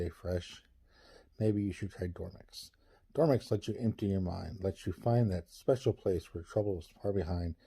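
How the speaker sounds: calm, smooth commercial voice; soothing ad read. Acted. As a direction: sell sleep like a late-night ad. Reads a mock sleep ad.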